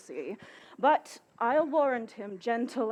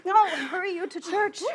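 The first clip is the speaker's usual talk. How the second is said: laughing; 7 semitones higher, 6 dB louder than usual. Acted. Nurse laughing and urging.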